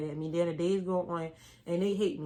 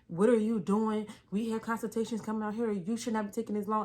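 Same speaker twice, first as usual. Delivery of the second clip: scolding wife; 2 semitones higher than usual. Retold or imitated.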